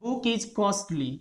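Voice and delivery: the said as short thuh before book, slow. Shown as a demonstration. Teacher showing thuh before a consonant, slowly. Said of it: "इसका उच्चारण जो है द करेंगे".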